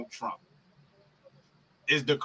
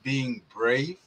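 sarcastic quote; 5 semitones lower than usual. Shown as a demonstration.

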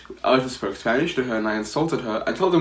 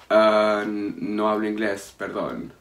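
feigned confusion; 3 semitones lower than usual. Retold or imitated. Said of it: "started speaking Spanish to this bitch".

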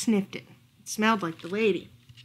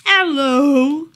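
high, loud bright hello; a mutant potato saying hi; cute potato greeting; 5 semitones higher, 11 dB louder than usual. Acted. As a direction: greet like a cheerful little creature. Rot greets reader.

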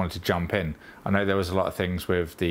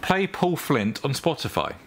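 slow and deliberate for the speaker; slow clear command; 6 semitones higher than usual. Real, not acted. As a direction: spell it out slowly.

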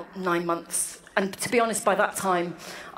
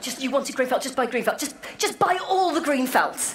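exasperated parent; 4 semitones higher than usual. Retold or imitated. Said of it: "a bit of a family row".

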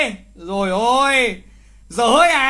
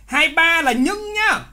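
những drawn out and slowed; teacher slows down to hammer the word những; stress on những; 5 semitones higher, slower than usual. Shown as a demonstration. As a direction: lean slowly on the word những. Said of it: "Để ý này, những nhá".

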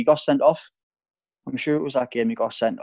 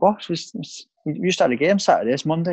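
higher, incredulous protest; mock outraged disbelief, pitched up; retold disbelief; 6 semitones higher than usual. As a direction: protest like you can't believe what you're hearing. Retelling own disbelief at Kev.

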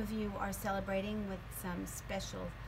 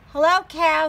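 duck greeting; 8 semitones higher, 19 dB louder than usual. Acted.

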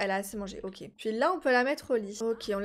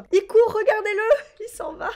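high, loud, slow laughing taunt; amused teasing; gleeful mockery; 9 semitones higher, 7 dB louder than usual. Real, not acted. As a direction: laugh at him as he flees. Neighbour running away.

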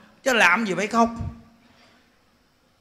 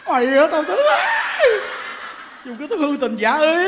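higher, hammed-up haunting voice; resentful ghost; 5 semitones higher than usual. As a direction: accuse the living like a comic vengeful spirit. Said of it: "nó cô hồn".

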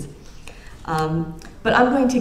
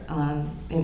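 usual speaking voice

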